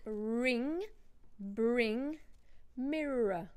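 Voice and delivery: "ring, bring, mirror" with each R sounded before its vowel; R pronounced before vowels. Shown as a demonstration. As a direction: say each word slowly, R clearly voiced in "ring", "bring", "mirror". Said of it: "you would only hear the R's".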